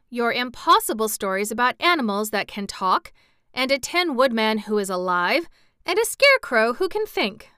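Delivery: lightly voiced scoffing hen; mocking hen. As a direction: sneer at the tall tales. Hen mocks Dorothy's stories.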